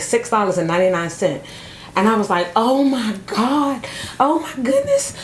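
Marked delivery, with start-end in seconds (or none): 2.6-5.1 re-enacted high-pitched freak-out; retold freaking out. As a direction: gush in disbelief, pitch climbing. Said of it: "I was just freaking out".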